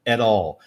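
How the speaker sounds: "at all" as one word, "adall"; linked pronunciation. Shown as a demonstration. Teacher repeating the connected form, linked. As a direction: flap the t of "at" straight into "all". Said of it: "eu falei".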